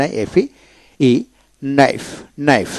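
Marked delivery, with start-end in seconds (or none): 1.6-2.7 "নাইফ" starting straight on n, twice; silent K. Shown as a demonstration. Teacher showing learners a silent letter, "নাইফ" without K. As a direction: say "নাইফ" with no k before the n. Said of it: "এভাবে উচ্চারিত হবে".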